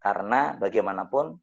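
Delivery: low, even voice with no anger; calm, not angry. Retold or imitated. Driver asking the man who hit him to come to the garage, calmly. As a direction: hold back the anger, stay polite. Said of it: "Tapi nadanya bukan nada marah".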